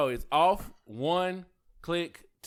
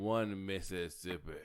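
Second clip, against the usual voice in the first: slow, drawn-out country Mississippi count; old country Mississippi; 5 semitones lower, 5 dB quieter than usual. Shown as a demonstration. Demonstrating to friends how Mississippians count, old country accent. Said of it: "You gotta do an old country Mississippi".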